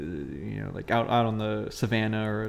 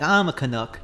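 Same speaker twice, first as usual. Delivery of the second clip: friendly; 4 semitones higher than usual. Acted. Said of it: "it's like the friendly".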